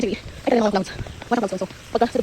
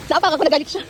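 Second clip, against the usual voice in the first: startled exclaim; 6 semitones higher, 8 dB louder, faster than usual. Real, not acted. Startled after stepping on someone.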